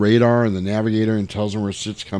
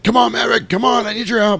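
mock urgent plea; 11 semitones higher than usual. Iceman pleading with Maverick.

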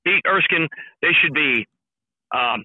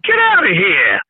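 put-on Boston accent; slower than usual. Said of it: "I just love your accent".

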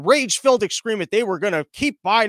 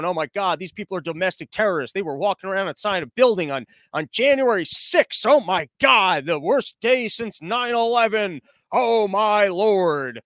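mock outrage. Podcaster mimicking everyone's overblown alarm, mock outrage. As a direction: overplay the scandalised horror, drawing out the last words. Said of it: "everyone going".

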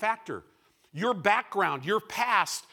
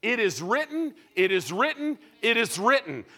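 loud, high confrontation of Satan; defiant rebuke; 4 semitones higher, 5 dB louder than usual. Acted. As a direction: throw the words at the enemy.

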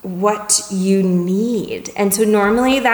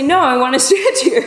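higher-pitched, hammed-up stubborn protest; mock refusal; 6 semitones higher, 4 dB louder, faster than usual. Upset person refuses to take a walk, mock refusal. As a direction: refuse like a worked-up complainer. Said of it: "Maybe they'll say".

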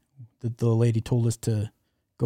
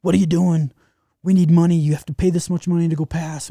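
higher, louder demanding bark; retold police officer yelling for money, raised pitch and volume; mock angry official; 6 semitones higher, 5 dB louder than usual. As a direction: lean on them like a shakedown cop. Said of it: "wailing on us".

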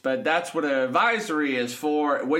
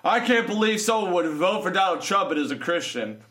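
mocking critics; 3 semitones higher than usual. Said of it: "they'll say".

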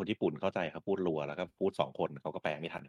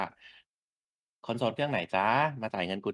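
slow, sly sing-song as a greedy publisher; mock greedy publisher; 3 semitones higher, much slower than usual. Host mocks publisher, slow sly greedy voice. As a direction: tease buyers like a money-hungry exec. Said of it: "มันแปลว่า".

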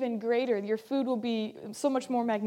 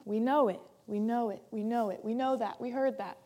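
softer, repetitive brush-off; mock dismissive; 3 semitones lower, 4 dB quieter than usual. Congregation shrugging off a familiar scripture, mock dismissive. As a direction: tick it off as old news, mildly. Voicing listeners who have heard it.

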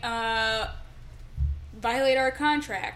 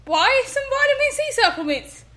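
higher, hammed-up pirate calling him Governor; pirate accent; 8 semitones higher than usual. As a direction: keep taunting in the pirate voice. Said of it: "I'm so good at accents".

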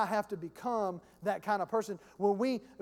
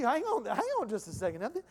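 whiny prophet; 6 dB louder than usual. Retold or imitated. Pastor voices the prophet crying to the Lord, hammed-up wail. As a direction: stretch out the cry as a hammed-up complaint. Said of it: "this guy's a whiny baby".

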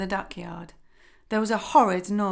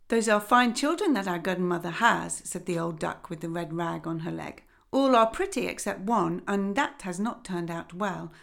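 lightly voiced haughty old duck; a hint of condescension; mildly grand lady duck.

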